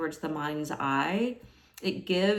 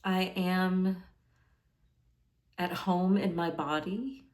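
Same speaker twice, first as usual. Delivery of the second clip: calm meditation guide, leaving space after each phrase; guided meditation; 4 dB quieter than usual. Acted. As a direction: offer each affirmation gently, unhurried. Guides a meditation with sample affirmations.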